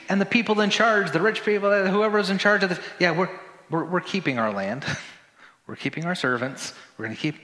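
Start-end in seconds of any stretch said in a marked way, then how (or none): 3.0-7.3 grudging refusal. Acted. Acting out rich people refusing.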